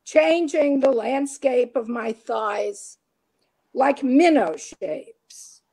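measured poetry reading with deliberate pauses; emphatic line openings, falling cadences; poem recital. Acted. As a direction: read it line by line, landing each phrase. Reads own poem aloud.

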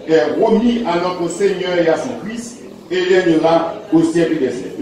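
solemn reading of scripture. Acted. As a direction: read the verse out to the congregation. Reads scripture verse aloud.

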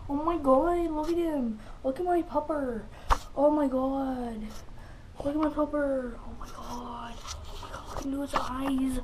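impression of a vlogger. Imitating Nick's vlog intro.

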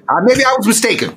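bitter, groaning sarcasm; ending on a pained groan; pained Max. Acted. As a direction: spit the joke out through the hurt. Wounded Max mocks the painting remark.

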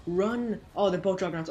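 loud panicked shout. Real, not acted. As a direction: shout the warning. Juggernauts attacking in game.

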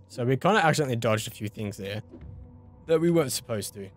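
talking through burps; slightly burpy voice. Real, not acted. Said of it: "sorry about being burpy there as well".

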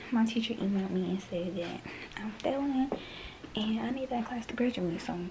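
breathless, winded talk; out of breath. Real, not acted. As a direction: speak while catching your breath. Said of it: "I'm out of breath".

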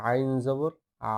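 slow, drawn-out আ made in the throat; throat-made ain. Shown as a demonstration. Teacher repeats a difficult letter for learners, throat-made ain. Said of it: "গলার মধ্যখান থেকে শেষ ভাগ থেকে উচ্চারণ করতে হবে".

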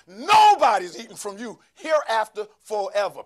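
Jesus rebuking the fig tree, commanding and loud; stepped-up command. Acted. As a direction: speak it like a command with authority. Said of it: "step it up one level and say".

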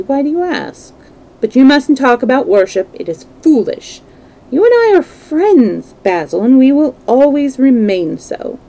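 a lad insisting on friendship; lightly voiced young Dorian, insistent. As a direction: brush off the worry brightly. Plays Dorian reassuring the painter.

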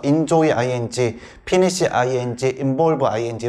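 "enjoy 아이엔지" said as one linked unit, likewise finish and involve; joined-up reading. Shown as a demonstration. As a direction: reel off each verb fused with 아이엔지. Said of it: "이런 식으로 붙여서". ("involve 아이엔지"처럼 한 덩어리로 붙여서 읽기)

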